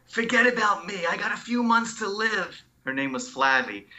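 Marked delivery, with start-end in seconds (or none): 0.1-2.6 higher, lightly voiced old patient; voicing a kind dying patient; Flavie's voice. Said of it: "one of my patients said".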